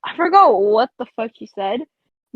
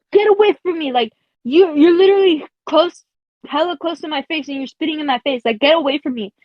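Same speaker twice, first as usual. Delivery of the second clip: mild retold attitude; 3 semitones higher than usual. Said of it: "with an attitude".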